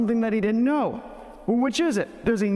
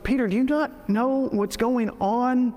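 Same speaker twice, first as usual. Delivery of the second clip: exasperated scolding, pitched higher; retold rebuke; 4 semitones higher than usual. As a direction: rebuke a follower who should know better. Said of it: "Gets a rebuke from Jesus".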